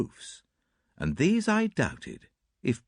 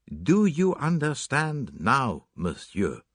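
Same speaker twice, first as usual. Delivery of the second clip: pressing slowly; 4 semitones higher, slower than usual. Acted. Poirot presses the suspect.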